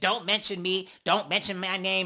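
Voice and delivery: heated, furious angry outburst, acted out. Retelling a cast member going off on another: imitating someone going off angrily. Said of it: "she starts going off on Big Lex saying".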